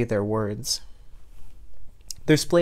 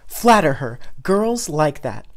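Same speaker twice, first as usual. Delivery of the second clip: anxious advice; 2 semitones higher, 5 dB louder, slower than usual. Acted. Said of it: "his mom said anxiously".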